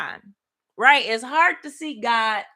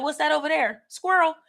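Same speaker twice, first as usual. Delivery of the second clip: distracted dog; 4 semitones higher than usual. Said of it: "like Doug from Up".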